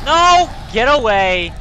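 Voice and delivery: high, loud panicked scream; real high-pitched yell. Real, not acted. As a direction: shriek it to drive off an attacker. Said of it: "my fucking screaming like a little girl".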